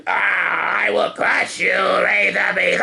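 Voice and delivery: high shouting battle cry; barbarian. Pretend. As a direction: roar like a warrior. Kid voicing toy battle.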